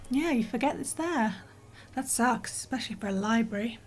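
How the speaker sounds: breathless, panting between words; talking while short of breath. Real, not acted. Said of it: "God, I sound all out of breath".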